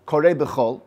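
"b'chol" said alone, then a clear stop; pause after the word. Shown as a demonstration. Teacher showing where to pause, "b'chol" then a stop. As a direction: land on "b'chol" and hold a pause before the next word. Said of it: "v'shoheh and pause".

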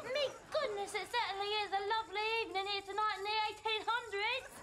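put-on posh period British accent. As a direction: speak like a Victorian lady, British accent. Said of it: "Why is she doing a British accent?".

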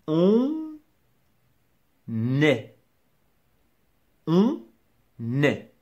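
"On" high and held, long pause, "est" said as "nè"; liaison split out. Shown as a demonstration. Teacher demonstrating liaison, slow split demonstration. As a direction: separate "On" from a clear "nè" for "est". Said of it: "Une liaison".

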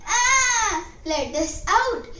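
high frightened cries; children crying. A narrator's reading. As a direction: plead to be let out. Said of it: "cried the children".

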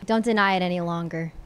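low, earnest melodrama, hammed up; low soap-opera confession; mock romantic pleading. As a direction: play a wounded secret lover, pitched well down. Acted lovers' confrontation in roleplay.

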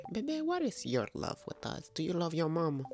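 high cooing pet voice. Real, not acted. Owner talking to her pet Bebe, high cooing baby talk.

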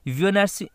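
ভিওনার্সিটি said with a y-glide at the start, like yoo-niversity; teacher modelling ভিওনার্সিটি with an opening y sound; pronouncing university. Shown as a demonstration. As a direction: sound ভিওনার্সিটি as yoo-ni-ver-si-ty, consonant y first. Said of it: "ইউ আমরা যখন উচ্চারণ করব".

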